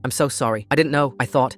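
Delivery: flustered, broken-off apology; stammering. Acted. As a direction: stumble over the words. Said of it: "she stammered".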